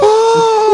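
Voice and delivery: sharp, high gasp of disbelief; shocked gasp. Real, not acted. Hearing his friend guess eighty-seven, a startled gasp. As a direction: gasp out loud in real shock.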